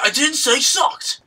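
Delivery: indignant denial. Retold or imitated. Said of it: "She's like".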